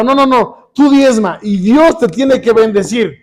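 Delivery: mock insistence; insistent pastor. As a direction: imitate a preacher laying down the law. Female pastor insisting, quoted critically.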